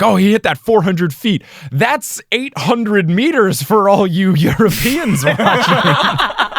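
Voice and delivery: hammed-up baseball commentator; mock sports announcer. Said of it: "It's like".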